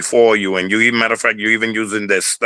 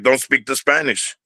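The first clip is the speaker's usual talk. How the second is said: mock scolding; 4 semitones higher than usual. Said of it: "it was like".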